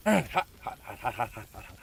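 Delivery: rapid hot hot hot; mock burn pain. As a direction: fake yelps of being scorched. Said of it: "burn the shit out of me".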